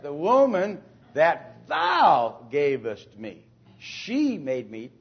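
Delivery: slow, pointed stress on thou; blame-shifting emphasis. Shown as a demonstration. Teacher shows Adam shifting blame onto God, slowly. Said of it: "That's exactly right".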